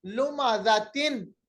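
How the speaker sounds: लुमाजातिन drawn out slowly, ending on तिन; slow recitation. Shown as a demonstration. Teacher slowly saying the second example word. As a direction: say लुमाजातिन slowly with full tanween. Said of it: "एक और मिसाल है".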